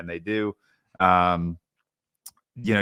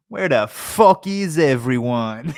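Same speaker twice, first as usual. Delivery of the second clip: high, louder, slow mock Irish; cartoonish Irish accent; 5 semitones higher, 6 dB louder, slower than usual. Podcaster imitating the fighter's cartoonish Irish accent. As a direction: ham up an Irish brawler shouting a question. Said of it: "like, cartoonish".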